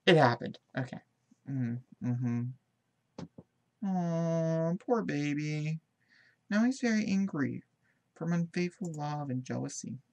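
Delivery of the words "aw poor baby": mock pity. Real, not acted. Pitying the sulking Sim.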